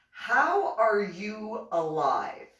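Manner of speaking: very slow, each word weighed; stunned question. Retold or imitated. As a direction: ask it in disbelief. Sergeant stunned by blood test.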